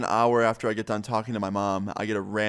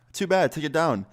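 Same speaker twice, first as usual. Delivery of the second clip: mimicked angry mom; 5 semitones higher than usual. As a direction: snap it back like an irate mom, pitched up. Angry mom demanding video removal.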